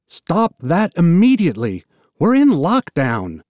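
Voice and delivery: stern shout through a door; shouted order. Acted. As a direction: bark the order from outside. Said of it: "a voice shouting from outside".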